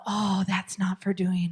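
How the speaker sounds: slow, hushed sympathy; empathetic one-liner. Shown as a demonstration. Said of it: "empathy, and that's one-liners".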